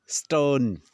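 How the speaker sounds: "स्टर्न" drawn out with no R sound; silent British R. Shown as a demonstration. Teacher gives an example, British R dropped in "स्टर्न". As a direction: stretch the vowel in "स्टर्न", leave R silent. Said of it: "आर मैंने pronounce नहीं किया है".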